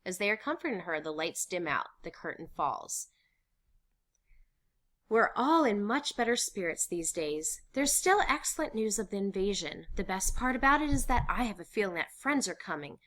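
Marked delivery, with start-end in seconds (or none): 5.1-13.0 higher, loud, bubbly confiding; cheerful young diarist. Acted. Anne writing about the invasion news, cheerful. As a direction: read it as a hopeful girl's happy diary. Anne's diary entry.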